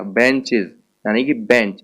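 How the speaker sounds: बेंचेज and बेंच with CH said as "ch". Shown as a demonstration. Teacher shows students the CH sound, pronounced "ch" in बेंच. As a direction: say बेंच with a clear "ch" sound, as in church. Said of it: "सीएच को मैं च बोल रहा हूँ".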